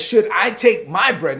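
slow, lightly mocking indignant question; mean man's talk. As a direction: imitate a scornful man, leaning on "my". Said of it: "this is how this guy talks".

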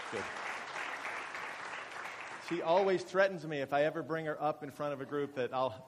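normal talking voice

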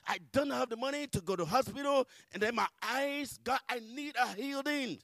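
high-pitched, insistent plea to God; pleading prayer. Retold or imitated. Asking God to heal legs and eyes, pleading. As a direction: cry out for healing, pitch held high. Testifying, acts out her plea.

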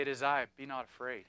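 Jesus speaking gently to a troubled heart, softly; soft reassurance. Acted. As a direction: say it like a quiet comfort to one person. Preacher voicing Jesus gently.

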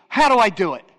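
blunt, loud demand; imitating her abrupt, loud question. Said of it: "Real, like, abrupt".

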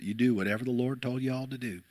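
a hint of a charming Southern accent; mild Southern accent. Pastor quoting the church lady in a mild Southern accent. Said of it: "she had this charming Southern accent".

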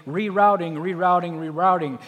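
a hint of a sat-nav announcer repeating itself; lightly voiced GPS calling out rerouting; mock GPS voice. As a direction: imitate the nagging navigation voice lightly. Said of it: "you will hear that annoying voice at times say".

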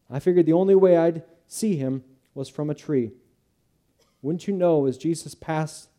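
lively, eager storyteller; animated Zacchaeus. Acted. Zacchaeus telling Judah how Jesus called him, animated. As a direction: tell it with wonder and energy.

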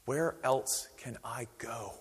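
slow, breathy whisper; whispered plea. Retold or imitated. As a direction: whisper it like a last hope. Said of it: "he says".

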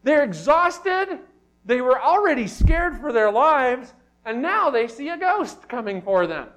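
loud, high preaching at full pitch; urgent, dramatic retelling; dramatic intensity. Real, not acted. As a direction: drive home their terror, high and forceful. Dramatising the disciples' terror.

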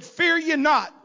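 normal talking voice

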